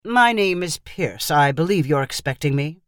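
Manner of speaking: measured and a little intimidating; serious interviewer. Acted. The interviewer introduces himself at the door, lightly stern. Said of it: "serious and intimidating smile".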